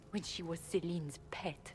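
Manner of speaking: soft unvoiced whisper; confiding a scandal in a whisper; whispered secret. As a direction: breathe the secret so no one hears. Servant reveals secret.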